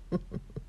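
small laugh. Real, not acted. Amused by remembered remark.

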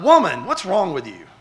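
mock scolding, punched first word; mock insulting. Preacher showing how "woman" sounds insulting, mock rebuke. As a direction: play at a rude rebuke, lightly hammed-up.

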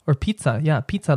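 "pizza" with aspirated p, "tsa"; pizza with z's. Shown as a demonstration. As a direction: say "pizza" stressing the two z's. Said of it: "like those two Z's".

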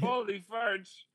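put-on slow, high Scottish-accent Holy farch; mock Scottish. Joking about a Scottish curse, mock Scottish. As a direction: ham up a Scottish exclamation. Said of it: "something a Scottishman would say".

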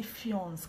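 "fiance" squashed into one syllable, ending on an s sound; mispronounced fiancé. Shown as a demonstration. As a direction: say "fiance" as "fyonce", with no final "ay". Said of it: "why do people say fiance".

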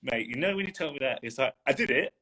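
imitating an overjoyed Scottish lad; thrilled Scottish mentee shouting his news; Scottish accent. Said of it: "he was in a Scottish accent as well".

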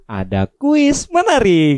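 slow announcer promo voice; radio ad voice. Acted. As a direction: sell it like a radio ad. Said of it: "pakai voice over".

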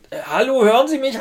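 high, loud hello into a watch; shouting into a tiny speaker; calling out loudly. Retold or imitated.

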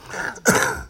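real dry cough; short raspy cough; smoker's cough. Real, not acted. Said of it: "I got a smoker's cough".

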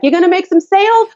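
put-on high, light child voice; a small child asking eagerly; little girl voice. Daughter voiced in story.

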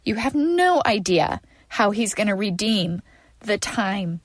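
tearful, voice full of crying; snotty crying. Real, not acted. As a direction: speak through ugly tears. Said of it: "you guys, I'm ugly crying".

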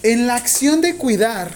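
slow dictation. Real, not acted. Teacher dictating the first question to students, slow dictation. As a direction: dictate it slowly for note-takers.

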